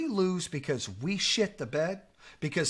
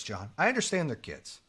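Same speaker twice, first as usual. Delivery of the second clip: restrained appeal, a little lowered; measured reasoning. Shown as a demonstration. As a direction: show how evenly it was said. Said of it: "I said it just like this".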